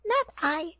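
high squeaky rat refusing. A narrator's reading. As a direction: squeak out a lazy no. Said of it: "And the rat said".

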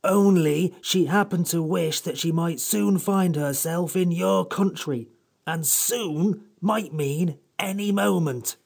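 slow, drawn-out scornful sarcasm; withering irony. A narrator's reading. The Samiad mocking the children with slow withering irony. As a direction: lay the sarcasm on thick. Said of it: "with withering irony".

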